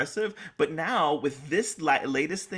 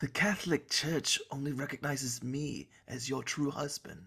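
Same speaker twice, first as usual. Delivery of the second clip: soft, half-laughing husband line; hammed-up husband, almost cracking up; mock dramatic delivery; 7 dB quieter than usual. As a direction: play it up while laughing. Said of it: "Say it, please".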